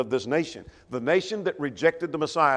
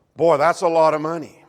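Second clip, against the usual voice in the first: mock-sincere sarcasm, louder; 2 semitones higher, 7 dB louder than usual. Acting out a worker underpaid five dollars for a day's work: acting sarcastic. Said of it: "You mean that's an insult".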